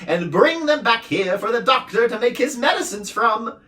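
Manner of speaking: squeaky-high noisy little being; din creature voice. A narrator's reading. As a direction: din puzzled why Milo dislikes noise. Din's voice.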